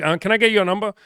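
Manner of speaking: a nervous guy asking a stranger for her number, high and squeaky. Retold or imitated. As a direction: ask like your nerve is failing.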